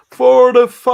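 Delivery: booming shout with a cave echo; canyon echo. Acted. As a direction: call it out like into a canyon. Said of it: "Did that sound like I'm in a cave?".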